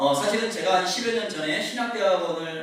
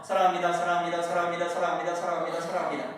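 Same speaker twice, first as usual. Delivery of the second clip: playful heart greeting; 3 semitones lower, faster than usual. Retold or imitated. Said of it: "하트를 막 만들어내는 거예요".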